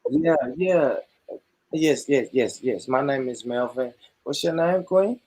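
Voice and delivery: lightly voiced ladies' man; smooth pickup line. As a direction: slide in smooth and confident. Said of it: "Let's kill it".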